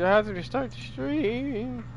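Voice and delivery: slow complaint with the voice cracking; real crack in a drawn-out whine. Real, not acted. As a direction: let the voice crack upward while griping. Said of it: "Yo, that voice crack?".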